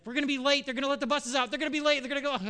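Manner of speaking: put-on high, loud anxious teen whine; panicky daughter. Daughter fretting in the car about being late, high whine. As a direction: whine it like a frantic kid. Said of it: "then Jill's like".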